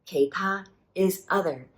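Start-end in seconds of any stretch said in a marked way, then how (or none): 0.1-0.7 Kei low, ta high; tone demo. Shown as a demonstration. Teacher modelling the tones of kei ta, deliberate. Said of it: "down low for the K, up high for ta".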